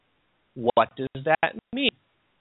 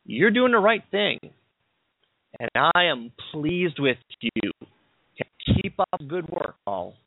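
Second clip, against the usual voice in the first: lightly voiced approval, starting higher then slowing; affirming Jesus; 4 semitones higher than usual. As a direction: affirm him with measured, emphatic encouragement. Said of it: "This is Jesus affirming to Paul".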